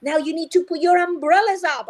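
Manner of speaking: bright, lively teacher; teacher voice to children. Shown as a demonstration. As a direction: address the class like a teacher. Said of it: "So what I say to children is".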